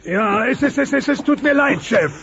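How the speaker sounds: stuttering, halting apology; a nervous worker stammering out an apology to his boss. Acted. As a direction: trip over every word, scared of the boss. Nervous employee confessing to boss.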